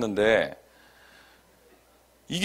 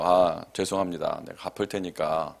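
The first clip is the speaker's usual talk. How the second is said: low, soft, slow placating tone; polite apology; 7 semitones lower, 6 dB quieter than usual. Retold or imitated. Debtor asking the caller to wait, polite low apology. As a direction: apologize nicely to buy time. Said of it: "몇 번 좋게도 얘기해보고".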